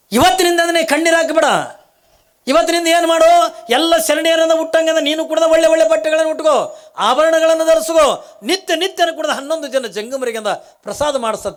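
high, loud divine proclamation; voice from the sky. Acted. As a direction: boom it out as a heavenly decree. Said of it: "ಆಕಾಶವಾಣಿ ಹಾಕದೆ". (ಎತ್ತರದ ಗಟ್ಟಿ ಆಕಾಶವಾಣಿ ದನಿ)

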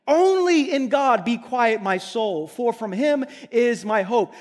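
Only stressed, slow opening; emphatic. Acted. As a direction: press Only, then let my soul sink. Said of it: "Again, emphatically".

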